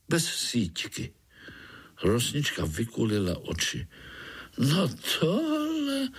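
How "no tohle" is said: much higher, slow gasp of wonder; amazed. Acted. Tree frog amazed at Pája catching a fly, astonished. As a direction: marvel at something never seen. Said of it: "úžasla".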